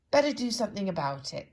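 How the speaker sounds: loud, businesslike; bossy handyman; brisk decision. Acted. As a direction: roll up your sleeves. Decisive character.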